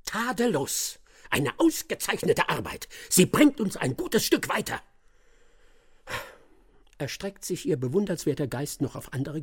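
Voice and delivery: high, mock-admiring praise; ironic, exaggerated compliment; sarcastic praise. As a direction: lay the flattery on thick. Detective mocking assistant's work.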